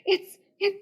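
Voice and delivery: high, soft, half-laughing plea to God; desperate prayer. Retold or imitated. Praying in the salon chair, high soft mock-desperate plea. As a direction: beg heaven in mock despair. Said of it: "I'm sitting there going".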